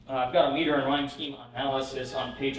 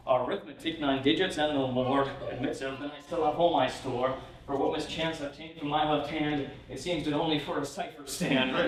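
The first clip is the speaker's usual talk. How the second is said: poem reading. Acted. Reads the Randolph poem aloud.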